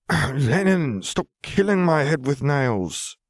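put-on a small girl asking the pain to stop; little girl voice. A narrator's reading. Girl speaks to dark voice.

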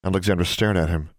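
ordinary delivery

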